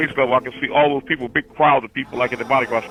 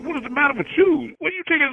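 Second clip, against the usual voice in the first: much higher, startled asking; alarmed family; 13 semitones higher than usual. Retold or imitated. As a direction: shoot the question up high in alarm. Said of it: "they're like".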